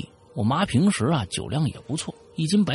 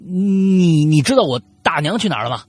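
raised voice, long hesitant first word; nervous probing; 4 semitones higher, 6 dB louder than usual. Acted. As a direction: draw out the opening, then ask. Nervous follow-up question to ghost. (拖长开头犹豫地问)

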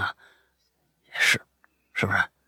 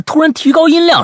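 sudden raised voice; 13 semitones higher, 5 dB louder than usual. A narrator's reading. Storyteller jumps at sudden turn.

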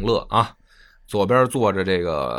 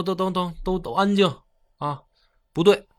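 An Lushan hushing the feast; 9 semitones higher than usual. Retold or imitated. Usurper An Lushan silencing his banquet, raised commanding voice. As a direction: snap the hall into silence like a new emperor.

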